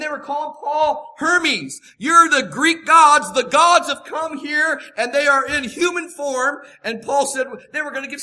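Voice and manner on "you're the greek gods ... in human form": loud, slow awed proclamation; loud slow awe; crowd acclaiming gods. Retold or imitated. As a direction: hail them as gods arriving. Crowd hails Paul as gods.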